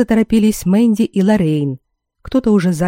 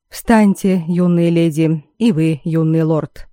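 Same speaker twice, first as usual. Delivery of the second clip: слегка хрипловатый, неспешный королевский голос; величаво, с лёгкой хрипотцой, медленно; чуть хрипловатый голос короля; slower than usual. Acted. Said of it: "чуть хрипловатый голос короля". (хрипловатый голос короля, милостиво)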